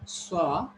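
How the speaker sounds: "Swa", the word saw, with drawn-out aw; long aw in "Swa", set against a short one; long vowel. Shown as a demonstration. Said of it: "find the difference here".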